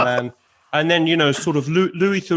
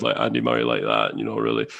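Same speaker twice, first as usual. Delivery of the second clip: much lower, flat, droning Scottish tennis voice; Andy Murray impression. Shown as a demonstration. Guest shows the hosts his deep flat Andy Murray. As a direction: drop deep into a monotone Murray drone. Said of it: "what you're doing is sort of".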